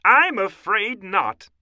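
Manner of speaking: high, loud scientist's refusal; emphatic high-pitched professor; Professor O'Hare. A narrator's reading. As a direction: declare it like a lecturer. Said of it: "said Professor O'Hare".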